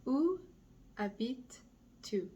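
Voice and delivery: high start. Shown as a demonstration. Teacher modeling the informal question. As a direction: pop the Où up. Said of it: "Informal two".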